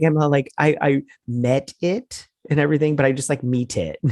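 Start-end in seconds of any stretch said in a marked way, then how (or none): 3.4-4.0 Meet it, said with a giggle; mock the line while laughing at it; giggling mock quote. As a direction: tease "Meet it" through a giggle.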